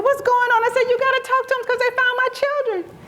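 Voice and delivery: half-scream the news to family; frantic excitement. Retold or imitated. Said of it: "I'm screaming and crying".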